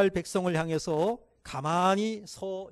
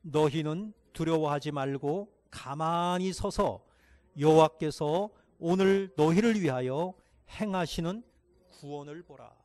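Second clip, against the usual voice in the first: unison reading; 4 dB louder than usual. Real, not acted. Congregation reads underlined verse.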